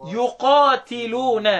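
drawn-out Quranic recitation of one word; slow recitation. Shown as a demonstration. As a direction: stretch the word as in tilawa. (ترتيل بطيء للكلمة)

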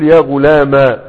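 يا غلاما ending in a short -a; fatha on mim. Shown as a demonstration. Teacher showing the short fatha ending to students. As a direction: cut the ending to a brief a. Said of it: "الميم مفتوحة".

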